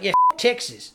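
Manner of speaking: terrible mock Australian; bad Australian accent. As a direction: imitate an Australian badly. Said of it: "my Australian accent was terrible".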